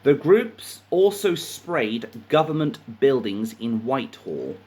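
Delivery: measured news reading with pauses; article read-aloud. A narrator's reading. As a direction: read out the report phrase by phrase.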